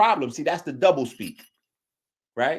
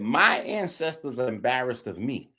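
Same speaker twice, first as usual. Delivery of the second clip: mocking quote; 5 semitones lower, 4 dB quieter than usual.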